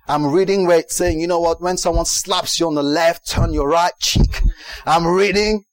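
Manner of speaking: a hint of a fired-up American preacher. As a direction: preach it like a TV evangelist, lightly. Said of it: "I'm talking like an American preacher now".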